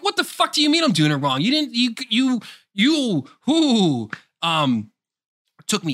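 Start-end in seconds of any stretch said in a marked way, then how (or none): 0.0-4.1 high, loud and fast, a mock fit of rage; outraged rant. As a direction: blow up at the game in disbelief. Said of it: "I'm like".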